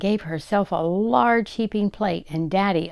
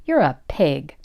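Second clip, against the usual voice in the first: mock bawling complaint; sobbing; 2 semitones higher, 4 dB louder than usual. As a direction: wail it at first like a wronged child. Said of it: "began to bawl. She sobbed".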